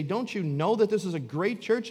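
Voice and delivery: hammed-up indignation at the suggestion; indignant churchgoer. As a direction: play the offended member defending their church. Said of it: "indignant and say".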